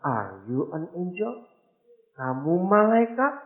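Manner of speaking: slow, wondering question; the mother, awed, asks very slowly; amazed wife. Retold or imitated. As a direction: ask it slowly in awe. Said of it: "Dengan wajah yang berubah".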